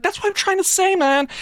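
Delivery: high, frustrated cry of disbelief; exasperated outburst. Acted. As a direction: blurt it out, fed up with nobody listening. Frustrated hero to guards.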